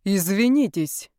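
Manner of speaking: slow, measured formal demand; duel challenge. Acted. Yaroslav demanding an apology like a duel challenge. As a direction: challenge her like a duelist. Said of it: "голосом Ленского, вызывающего на дуэль Онегина".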